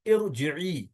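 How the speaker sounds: इरजिई slowly, opening on "ir"; initial short i. Shown as a demonstration. Teacher models the command form, इरजिई with initial "i". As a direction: draw out इरजिई to a long final "ee". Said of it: "क्या कहेंगे?".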